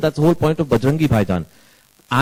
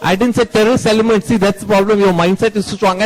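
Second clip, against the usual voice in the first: raised, heated insistence; indignant director correcting a reporter, higher; indignant rebuttal; 5 semitones higher than usual. Real, not acted. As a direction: push back hard, voice pitched up.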